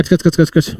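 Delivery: scissor snips. Shown as a demonstration. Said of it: "कैंची use करता है".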